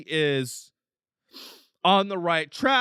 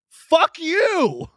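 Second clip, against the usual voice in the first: much higher, louder explosive yell; furious shout; 12 semitones higher, 8 dB louder than usual. Real, not acted. Comic yelling fuck you at someone who called him weird. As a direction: blast it back at them.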